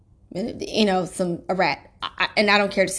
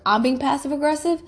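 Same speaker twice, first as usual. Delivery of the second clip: incredulous; 6 semitones higher than usual. Retold or imitated. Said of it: "And I was like".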